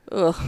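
short "ugh" of distaste; annoyed groan. Shown as a demonstration. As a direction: groan as if put off by someone. Showing annoyance at a disliked comedian.

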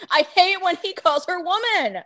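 laughing. Real, not acted. Laughing complaint, louder.

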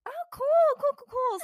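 high, deadpan ironic repetition; sarcastic "cool". Retold or imitated. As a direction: fake calm hiding alarm. Sarcastic reply to fainting news.

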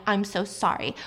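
understated retold tearful apology; retold crying. Husband apologizing as she's dragged out, mildly tearful retelling. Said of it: "He just keeps crying".

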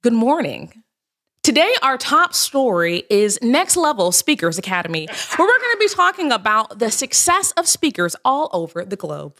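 polished TV news anchor read; newscaster voice. Shown as a demonstration. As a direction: open the morning news broadcast. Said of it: "Give us your best newscaster voice real quick".

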